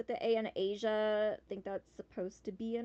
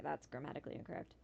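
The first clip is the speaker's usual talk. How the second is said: low, soft, quick aside; note the error quickly under your breath; muttered correction; 7 semitones lower, 8 dB quieter, faster than usual. Real, not acted. Player spots a mistake in the email, quick low mutter. Notices error in game text.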